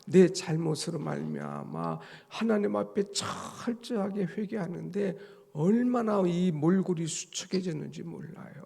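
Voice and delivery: ordinary talk, nothing marked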